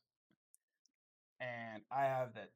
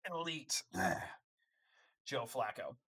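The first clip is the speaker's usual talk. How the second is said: sarcastic; slower than usual. Real, not acted. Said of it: "I was choking on that coming out".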